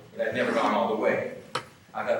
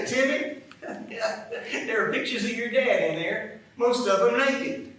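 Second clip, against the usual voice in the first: higher, drawn-out list, stepping down; slow, emphatic disclosure; 7 semitones higher, much slower than usual. Acted. Jim sharing what was in the box, slow and emphatic. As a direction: space out each shocking item for effect. Brother-in-law revealing shocking photos, drawn out.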